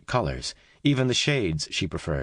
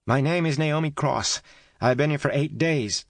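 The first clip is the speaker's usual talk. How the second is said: Naomi finally calling back to Kate; 9 semitones higher than usual. A narrator's reading.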